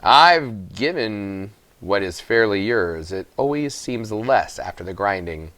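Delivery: slow, smug, oily miller. Acted. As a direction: ooze false sincerity, slowly. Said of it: "the miller said in his oily voice".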